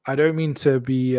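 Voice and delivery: normal talking voice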